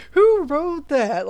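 high, slow disbelieving question; incredulous. Real, not acted. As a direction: ask it in disbelief. Incredulous at the email.

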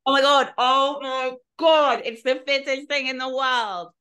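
loud, high gush of delight; high-pitched, emphatic swoon; swooning excitement. Real, not acted. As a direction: gush helplessly over an accent you adore. Gushing over the accent just demonstrated.

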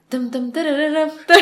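"tem tem tererem" alarm impression; imitated alarm tune. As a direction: mimic a phone alarm with your voice.

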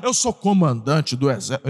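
the commander's reply. Acted. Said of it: "Você é por nós ou contra nós?".

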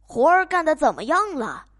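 loud, demanding farmer; 懒农夫大声嚷嚷; farmer yelling. Acted. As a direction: bark it from bed like a lazy boss. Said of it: "农夫嚷嚷道".

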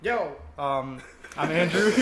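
smooth radio host intro. Real, not acted. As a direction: introduce yourself like a DJ. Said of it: "you hear his radio voice".

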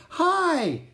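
very high, loud, eager hello; joyful greeting. A narrator's reading. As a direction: greet a dear friend with delight. Annie rushes to hug Merlin.

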